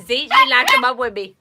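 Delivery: high, loud laugh through words. Real, not acted. Laughing at locked-up dog.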